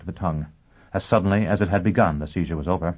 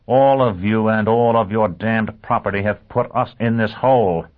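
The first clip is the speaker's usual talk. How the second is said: angry; 4 semitones higher, 6 dB louder than usual. Acted. Businessman blamed for the war.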